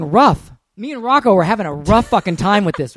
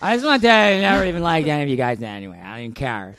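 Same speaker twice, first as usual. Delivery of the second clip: put-on drunk message; 4 semitones lower, faster than usual. Acts drunk message-leaver to listeners.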